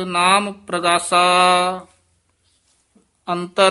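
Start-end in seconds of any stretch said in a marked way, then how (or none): 3.3-3.7 ਅੰਤਰ, then a long pause; pause after word. Shown as a demonstration. Teacher marking the pause: ਅੰਤਰ, then silence. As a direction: let ਅੰਤਰ stand alone before going on. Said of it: "ਇਹ ਅੰਤਰ ਪਦ ਤੇ ਵਿਸਰਾਮ ਲਾ ਦੇਣਾ".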